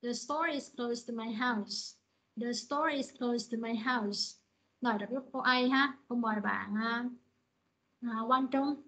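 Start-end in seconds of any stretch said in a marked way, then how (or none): 0.0-4.4 slow, clear falling statement; falling tune. Shown as a demonstration. Teacher reads for the class to copy, falling. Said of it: "Các bạn nghe cô nè".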